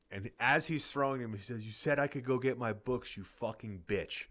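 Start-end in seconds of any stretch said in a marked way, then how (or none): 1.6-4.3 retold scream, barely raised, the end slowing down; hint of a furious shout, kept at talking level; mild mock yell. Boy hurling books at the window, mild mock yell. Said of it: "Like, top of his lungs".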